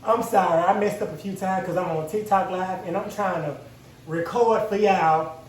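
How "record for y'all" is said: stressed. Real, not acted. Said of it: "I'm stressed".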